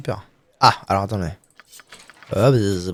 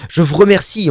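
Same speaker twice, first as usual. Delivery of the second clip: higher, louder thankful voice; grateful character voice; 8 semitones higher, 4 dB louder than usual. Acted. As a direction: thank them like a quest giver.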